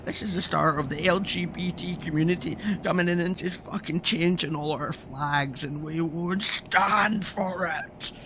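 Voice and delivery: mock their panic over flags; mocking quote. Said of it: "They're all acting like".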